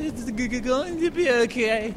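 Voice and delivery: halting, tearful stammer on going; a child trying not to cry, stumbling through it; mock-tearful stuttering repeat. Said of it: "look into my eyes and say".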